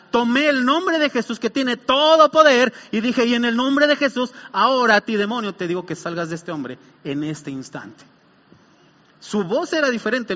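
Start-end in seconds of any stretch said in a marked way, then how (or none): 3.2-8.0 commanding a demon out, firm and forceful; orden con autoridad. Retold or imitated. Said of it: "Tomé la autoridad que Dios me da". (orden firme de exorcismo)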